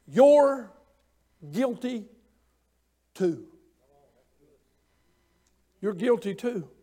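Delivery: soft, solemn indictment; hushed accusation. Retold or imitated. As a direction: say it quietly, letting it sink in. Imagined writing on ground.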